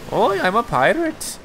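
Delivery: high hammed-up pirate. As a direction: ham it up as a pirate. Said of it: "you gotta do your pirate voice".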